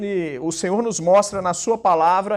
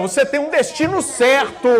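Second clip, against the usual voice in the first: higher, certain prophetic declaration; 4 semitones higher than usual. Shown as a demonstration. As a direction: proclaim it without any doubt. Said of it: "Mas com voz de profeta, não é com dúvida não".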